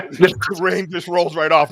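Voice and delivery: slow repeat through laughter; laughing. Real, not acted. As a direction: chuckle while savoring the line. Repeating a joke, cracking up.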